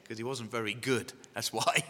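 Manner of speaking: quiet, low throwaway admission; low aside. Real, not acted. Preacher confessing he was picked last, low aside. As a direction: drop it softly as an aside. Joking aside about himself, then repeated.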